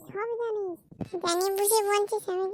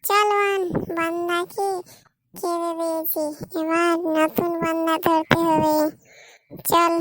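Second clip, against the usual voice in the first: louder, gleeful rallying call; loud gleeful call to the sister, ready for the next catch; loud triumphant; 6 dB louder than usual. Acted. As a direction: crow it out to your sister as you march off. Triumphant sisters leaving the scene.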